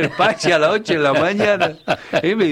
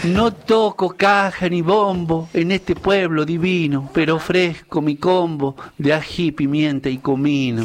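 verse recital. Acted. The speaker performs his 25 de mayo lines for the hosts, reciting verse. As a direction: recite a homemade folk verse. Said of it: "le he hecho unas líneas".

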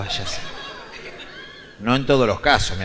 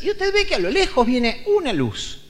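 a lightly voiced officer, higher and slowed; quizzing officer; 10 semitones higher, slower than usual. The traffic officer poses a riddle to grandpa, a bit higher and drawn out. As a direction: draw out the riddle like a smug cop.

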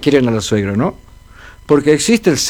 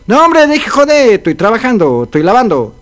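put-on old wife refusing; 5 semitones higher than usual. Old wife at the washing brushes off her husband. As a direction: wave him away, she's busy.

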